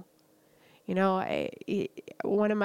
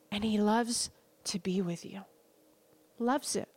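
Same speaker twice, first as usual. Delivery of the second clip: whispering. Real, not acted. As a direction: breathe it like a secret. Intimate aside about God's love.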